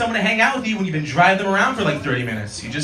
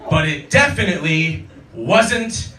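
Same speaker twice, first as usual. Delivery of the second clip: stoned passenger; slower than usual. Retold or imitated. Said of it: "And he just goes".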